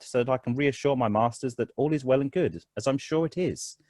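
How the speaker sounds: measured, composed officer, lightly voiced; mildly formal, self-possessed request; calm, confident. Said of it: "he's speaking calmly. but he's fairly confident".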